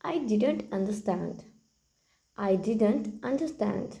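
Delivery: very slow, word by word for learners; slow model sentence. Shown as a demonstration. Teacher repeats the phrase for the class, very slow. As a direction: lay each word out slowly. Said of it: "कहिए".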